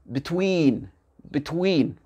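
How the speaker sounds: "between" with short first vowel, long second vowel. Shown as a demonstration. Teacher contrasting the two vowels, short then long. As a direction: clip "be", draw out "tween" in "between". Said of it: "I court, I long".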